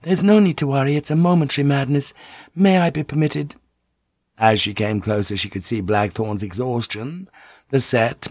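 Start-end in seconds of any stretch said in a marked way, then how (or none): 0.0-3.5 high, urgent appeal; crying out. A narrator's reading. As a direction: call out high, pleading to step in. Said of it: "she cried out".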